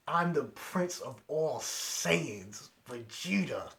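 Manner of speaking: slow, emphatic title announcement; imitating a proud warrior's declaration; proclaiming Vegeta. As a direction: proclaim your own name like royalty. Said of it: "And then he says".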